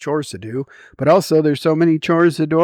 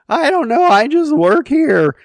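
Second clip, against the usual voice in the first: put-on a bored fast-food kid mumbling his line; Fry Kid impression; 13 semitones higher, 9 dB louder than usual. Shown as a demonstration. Vlogger shows off his fast-food kid voice, high and dopey. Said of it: "the Fry Kid from The Simpsons".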